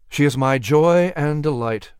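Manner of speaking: a touch of husbandly pride; proud. Acted. Patrick tells Thomas about his wife, mildly proud. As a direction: say it proudly, with restraint. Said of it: "Patrick answered proudly".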